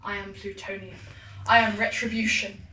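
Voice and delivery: building goddess proclamation; warm serene goddess voice. Acted. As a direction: swell into a divine declaration.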